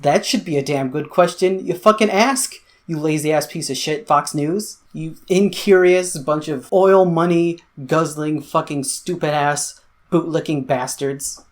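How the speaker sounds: angry rant. Real, not acted. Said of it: "I'm so angry".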